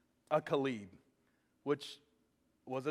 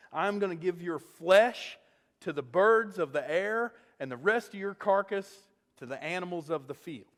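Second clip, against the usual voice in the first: menacing threat. Retold or imitated. Goliath threatens David.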